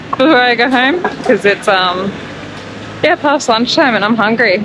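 numb mouth, words slightly slurred; numb from the dentist. Real, not acted. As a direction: talk with half the mouth numb. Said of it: "half of my mouth is completely numb".

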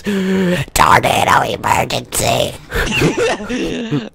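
mock alert.

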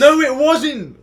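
high, loud, drawn-out denial; shouted contradiction. Real, not acted. Friend denying it was a ghost, shouted contradiction. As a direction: stretch out a loud rebuttal. Arguing over what appeared.

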